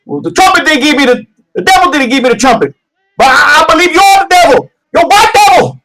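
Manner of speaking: a crazed man accusing the devil, near crying; unhinged Leroy. Acted. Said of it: "he's like".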